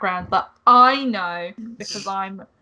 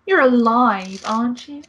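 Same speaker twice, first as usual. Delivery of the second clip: hammed-up French accent, a touch louder; 3 semitones higher, 5 dB louder than usual. Angel greets the player in a mock French accent. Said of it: "That is the best French accent".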